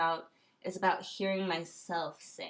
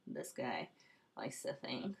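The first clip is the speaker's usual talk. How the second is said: hushed, breathy aside under her breath; whispered aside; 7 semitones lower, 8 dB quieter than usual. Real, not acted. Vlogger murmuring a sly jab at this guy, whispered. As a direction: drop to a secret whisper for the jab.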